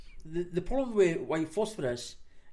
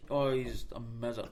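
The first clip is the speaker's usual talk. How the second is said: lower, lifeless praise; mock monotone; 5 semitones lower, 3 dB quieter than usual. Mocking the website's praise of its leader, monotone. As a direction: imitate a bored propaganda writer. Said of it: "you can hear them saying it in a monotone".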